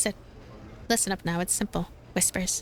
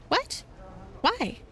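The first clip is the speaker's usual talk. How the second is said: shocked what; 8 semitones higher than usual. Acted. Reading the fox's shocked reply.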